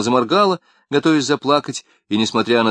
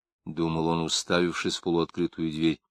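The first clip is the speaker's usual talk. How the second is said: usual speaking voice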